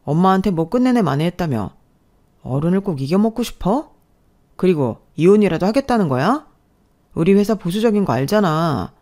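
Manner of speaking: mildly angry reproach; scolding husband. Acted. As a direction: lecture the wife with restrained irritation. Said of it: "남편이 알고는 저를 나무라더라고요". (아내를 나무라는 남편)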